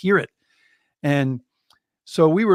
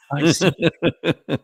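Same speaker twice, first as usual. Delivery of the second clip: slow, laughing acknowledgement; 3 dB louder, much slower than usual. Retold or imitated. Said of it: "he goes".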